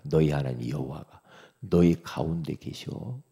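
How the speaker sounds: ordinary delivery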